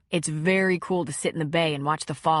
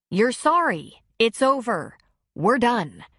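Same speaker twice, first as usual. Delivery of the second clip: angry; 4 semitones higher, 4 dB louder, slower than usual. Acted. Mocking his apology angrily.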